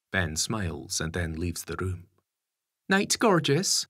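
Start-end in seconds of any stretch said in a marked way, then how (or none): 2.9-3.8 higher, louder call after him. A narrator's reading. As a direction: call up the stairs fondly. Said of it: "Lisa shouts after him".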